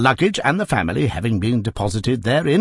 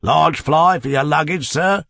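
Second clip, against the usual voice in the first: cried out; 5 semitones higher, 3 dB louder than usual. Acted. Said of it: "cried a third".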